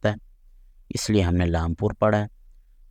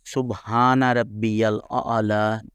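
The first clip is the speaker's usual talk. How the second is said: slow, drawn-out سبحان ربی الاعلی; slow recitation; much slower than usual. Shown as a demonstration. Teacher demonstrating the phrase, slow recitation. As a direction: recite slowly with long vowels. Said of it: "اس میں ہا کے بعد الف ہے".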